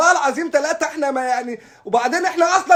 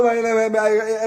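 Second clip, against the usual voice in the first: speechless stammer; 3 semitones lower, much slower than usual. Retold or imitated. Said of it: "فقد النطق".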